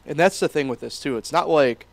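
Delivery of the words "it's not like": hiccuping mid-sentence; with hiccups. Real, not acted. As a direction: talk through the hiccups. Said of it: "I've got hiccups here".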